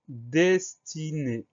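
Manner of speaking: word drawn out syllable by syllable; slow dictation. Shown as a demonstration. Teacher giving learners the next word, slow dictation. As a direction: say it slowly, separating the syllables.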